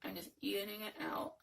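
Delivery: talking without moving lips; talking with mouth closed. Real, not acted. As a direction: ventriloquist style, lips still. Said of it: "trying to talk without, without moving my lips".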